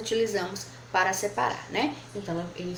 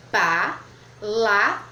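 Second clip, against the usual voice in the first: "Pa-la-vra" in three slow, louder beats; syllables split; 5 dB louder, much slower than usual. Shown as a demonstration. Teacher showing pupils the syllables of palavra. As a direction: chop "Pa-la-vra" into separate syllables, slowly.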